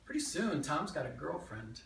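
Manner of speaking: lively memoir monologue with swinging pitch; animated childhood tale, present tense; stage storytelling. Acted. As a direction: tell it to a live audience as your younger self. Performs a written memoir monologue.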